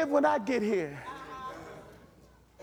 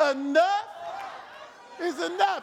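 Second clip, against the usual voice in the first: mad at the devil. Shown as a demonstration. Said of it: "say it like they mad at the devil".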